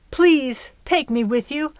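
high, urgent plea; pleading. A narrator's reading. Girl begging fairy to take her, pleading. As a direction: beg to be taken along.

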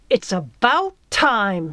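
drawn-out, indignant growl; angry growl. A narrator's reading. Girl steaming mad at late fairy, growling. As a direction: growl it out slowly, fed up. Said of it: "she growled".

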